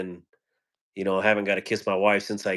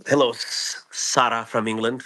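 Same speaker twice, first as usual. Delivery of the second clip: put-on half-hearted English accent, slightly raised; attempted English accent; 2 semitones higher, 3 dB louder than usual. Streamer greeting a viewer from England, failed English accent. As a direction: have a loose go at an English accent. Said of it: "can't even do an English accent".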